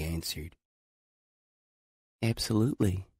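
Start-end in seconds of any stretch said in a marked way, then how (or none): 2.2-3.1 put-on higher, certain young voice; firm girl's answer. A narrator's reading. Girl answering Adam about her dream, higher firm voice. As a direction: say it with total conviction.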